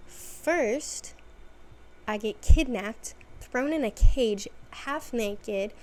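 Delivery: hammed-up temper tantrum. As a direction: rant like a fed-up teen. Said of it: "Caitlin is throwing a temper tantrum".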